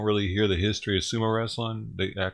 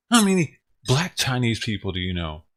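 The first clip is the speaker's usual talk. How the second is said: repeated louder, stress on How; 5 dB louder than usual. Real, not acted. Repeating the question to a confused chat, louder. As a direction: push the line again so it lands.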